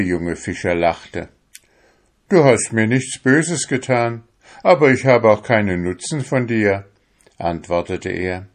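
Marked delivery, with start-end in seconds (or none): 2.3-6.9 loud, raised careless dismissal; dismissive fisherman. Acted. Fisherman coldly dismisses his pleading soul. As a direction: brush the soul off.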